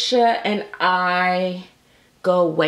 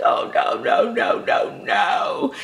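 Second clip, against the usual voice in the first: a breathy, horrified no-no-no; whispered panic shout of no; mock dismayed shout; 7 semitones higher, slower than usual. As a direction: shout it like the legs are ruined. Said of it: "and I was like".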